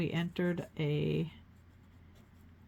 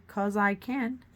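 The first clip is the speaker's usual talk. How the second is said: defiant; 4 semitones higher, 4 dB louder, slower than usual. Pretend. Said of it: "that's what I'm gonna say".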